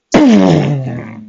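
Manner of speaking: drawn-out falling boom noise; imitated explosion. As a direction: make a blast sound that trails away. Explosion imitated after the yell.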